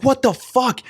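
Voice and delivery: very high, disbelieving exclamation; imitating stunned singer. Podcaster retells a singer stunned by his crowd, very high disbelief. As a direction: blurt it out in happy shock. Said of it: "He's like".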